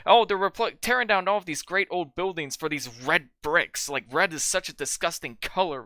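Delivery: imitating a disgusted, ranting complainer; mock indignant rant. Podcaster imitating film's killer railing at gentrification, mock indignant. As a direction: raise the pitch into a mock outraged rant.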